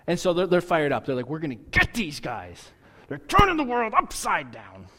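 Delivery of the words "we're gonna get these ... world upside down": lightly voiced whiny Costanza, rising; a hint of George Costanza griping. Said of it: "That sounded like George Costanza".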